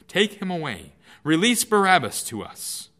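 a loud, high crowd cry demanding Barabbas; crowd shouting. Acted. The crowd shouts at Pilate to release Barabbas, loud. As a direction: shout it as one angry mob. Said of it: "They all shouted together with one voice".

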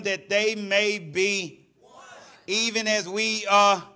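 sustained, chant-like scripture reading; scripture declamation. Real, not acted. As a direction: proclaim the verse to the congregation.

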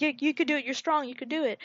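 high, soft imitated urging; mock encouraging. Little friend urging boy to escape, mock encouraging. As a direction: cheer on a friend in a small voice.

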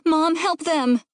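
put-on high, urgent kid's voice; distressed child's plea; pleading child. A narrator's reading. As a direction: beg Mom to step in. Child begs mother for help.

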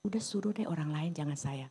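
voiceless whisper of a reluctant Moses begging off; whispered plea. Retold or imitated. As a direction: whisper it, pleading to be let off. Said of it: "Tapi begitu Musa bilang".

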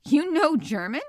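high, loud astonished What; a startled professor blurts it out; surprised exclaim. Acted. Professor surprised to learn Conseil speaks German, exclaiming. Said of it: "I exclaimed".

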